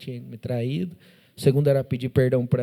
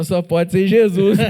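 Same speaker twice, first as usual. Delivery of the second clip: slow, louder amazed reply; a mock-amazed wife, drawn out; amazed exclamation; 4 semitones higher, 7 dB louder, slower than usual. Wife answering his plea, amazed and slow.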